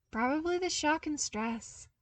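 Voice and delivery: sympathetic. A narrator's reading. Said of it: "Luke offered sympathetically".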